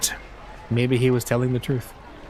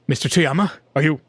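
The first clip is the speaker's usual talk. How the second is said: worried disbelief; 4 semitones higher than usual. A narrator's reading. Caller asking his sobbing editor, surprised and worried. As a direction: ask if he's really crying.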